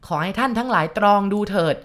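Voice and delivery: shouting to the room. Acted. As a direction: stand up and shout your case to the mourners. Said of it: "ลุกขึ้นยืนตะโกน".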